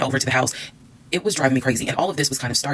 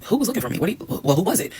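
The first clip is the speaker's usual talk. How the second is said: surprised; 6 semitones higher than usual. Retold or imitated. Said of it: "And I'm like".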